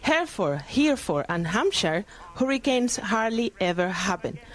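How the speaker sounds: slow, careful Cockney-style Hereford line; slow, effortful English with every H pushed out; imitating Eliza's attempt. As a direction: read it slowly, over-sounding each H. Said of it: "le dice, voy a intentarlo".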